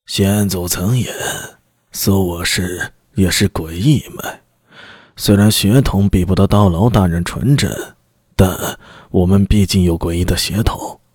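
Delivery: low, deferential petitioner; humble envoy. Acted. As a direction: plead respectfully, keeping it low. Clan envoy pleads his case.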